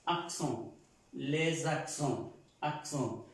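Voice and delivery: "Accent" ending in a nasal O; French "accent", nasal O at the end. Shown as a demonstration. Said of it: "suena una O nasal".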